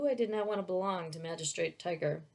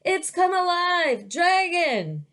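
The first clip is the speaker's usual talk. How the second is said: high, loud terrified yell; screaming servant; 10 semitones higher, 6 dB louder, slower than usual. A narrator's reading. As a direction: scream it out in panic. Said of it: "the servant screaming".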